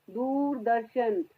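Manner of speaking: slow "दूरदर्शन" with dental द twice; soft-D Doordarshan. Shown as a demonstration. Teacher modelling the channel name, slow soft-D "दूरदर्शन". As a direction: say "दूरदर्शन" slowly, tongue on the teeth for each द. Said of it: "यहाँ दी की आवाज द दे रहा है".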